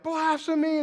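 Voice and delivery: outraged cry. Retold or imitated. Pharisees denouncing Jesus, outraged loud cry. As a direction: shout it as an accusation. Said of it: "And they were like".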